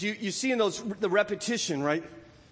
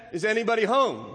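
Pooh calls down the hole, louder; 5 semitones higher, 5 dB louder than usual. A narrator's reading. Pooh calls into Rabbit's hole, loudly. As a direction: raise the voice into the hole. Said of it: "called out Pooh very loudly".

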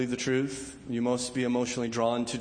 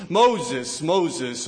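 calling a name loudly from afar; 7 dB louder than usual. Retold or imitated. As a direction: call him, moderately loud. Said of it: "God calls the prophet".

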